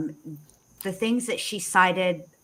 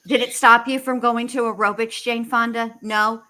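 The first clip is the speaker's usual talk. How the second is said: mocking, louder and higher; sarcastic taunt; 5 semitones higher, 4 dB louder than usual. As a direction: tease her with fake concern. Mocking the inmate's complaint.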